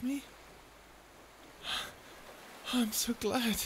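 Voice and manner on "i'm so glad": sighed, whispered relief, slow; relieved sigh. Acted. Relieved after being forgiven.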